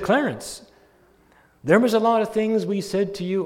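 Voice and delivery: loud, high preacher's address; authoritative preaching. Retold or imitated. Pastor addressing Clarence at the casket, loud preaching. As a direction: speak to the corpse with full authority. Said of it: "said it with such authority".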